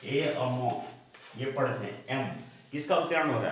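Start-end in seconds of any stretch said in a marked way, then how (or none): 0.1-0.7 "ए, अमो" with the vowel held apart first; letter split into sounds. Shown as a demonstration. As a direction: say "ए" alone, then the m sound as "अमो". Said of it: "यानी इस तरह से".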